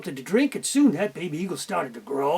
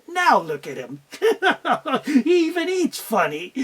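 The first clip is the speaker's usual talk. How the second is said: giggling mockery; laughing chicks; 5 semitones higher than usual. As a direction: laugh at his clumsy eating. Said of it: "The chick stopped and went".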